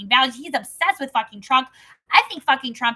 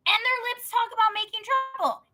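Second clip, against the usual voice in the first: scripture reading. Acted. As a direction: read it out measured and steady. Reads Proverbs chapter aloud.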